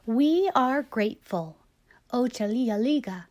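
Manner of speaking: measured read-aloud storytelling; story reading. A narrator's reading. Host reading a picture book to Dusty, measured storytelling. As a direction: read the book gently to the kids.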